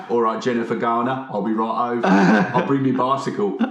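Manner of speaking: a hint of a smooth-talking charmer, laughing at the end; lightly voiced flirt; laughing through a mock charmer's line; cheeky chat-up voice. Shown as a demonstration. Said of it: "you gotta say it like that".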